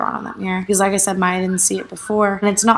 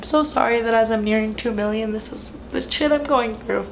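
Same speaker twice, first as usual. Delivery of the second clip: trying not to cry; holding back tears; 2 semitones higher than usual. Real, not acted. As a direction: voice wavering, fighting tears. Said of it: "I'm trying not to cry".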